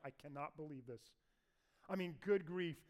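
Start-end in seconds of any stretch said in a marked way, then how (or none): 0.0-1.0 softer, under-the-breath grumble; muttering to himself. Retold or imitated. Abishai grumbling to himself on the way back, quiet mutter. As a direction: mutter it like a fed-up soldier. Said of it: "is muttering to himself".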